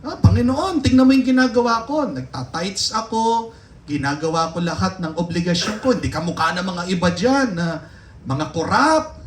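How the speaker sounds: mock proud Pharisee praying; boastful Pharisee. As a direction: show off your good deeds to God. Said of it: "Ganun yung magsalita, magdasal yung Pariseo".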